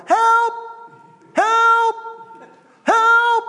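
high, very loud cry for rescue; yelling for help. Acted. Drowning person calls to a rescuer, yelling. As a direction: yell it out like someone drowning. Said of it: "Why do you yell".

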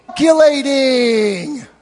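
loud, drawn-out mock machine announcement; GPS calculating. GPS reacting to a milk stop, loud drawn-out mock announcement. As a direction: stretch the word out loudly like an insistent GPS.

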